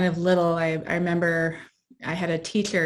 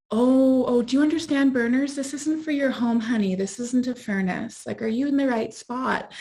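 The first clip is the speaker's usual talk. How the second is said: much higher mocking voice of a patronizing man; condescending man; 6 semitones higher than usual. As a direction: talk down to her like a confused little girl. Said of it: "or I'd have men going".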